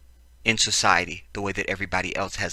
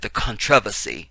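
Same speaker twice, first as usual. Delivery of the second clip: "controversy" in a put-on British accent; fake British accent. Host correcting himself while reading the news, fake British accent. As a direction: stress the TROV of "controversy", mock British. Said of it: "had to get my fake British accent in there".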